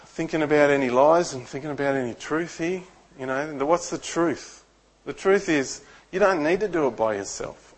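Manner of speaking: quiet, tender divine reassurance; God speaking gently. Retold or imitated. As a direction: speak like a kind father soothing. God's gentle voice while driving.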